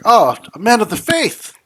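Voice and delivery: high, delighted sister's exclamation; delighted nun. Acted. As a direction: greet him like a thrilled nun. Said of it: "she's like".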